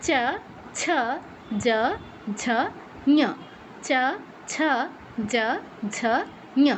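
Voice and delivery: চ ছ জ ঝ ঞ with the tongue on the palate; palatal series. Shown as a demonstration. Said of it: "জিহ্বাটা তালুতে স্পর্শ করে".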